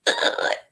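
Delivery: soft, throaty mock sob; brief imitation of a child sobbing; imitated sobbing. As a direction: act out a choked wordless sob. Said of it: "like, sobbing".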